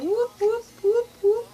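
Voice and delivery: high, loud playful whoops; party cheer, replayed; dancing whoops. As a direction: whoop to a dance beat.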